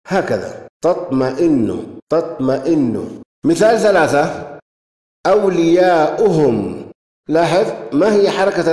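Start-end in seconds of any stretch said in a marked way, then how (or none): 0.8-3.2 very slow, syllable by syllable; measured dictation, each part drawn out; slow sounding out. Shown as a demonstration. Sounding out the written example word. 5.3-6.9 long, stretched middle vowel; careful, slow dictation; slow sounding out. Shown as a demonstration. Presenting a new example word.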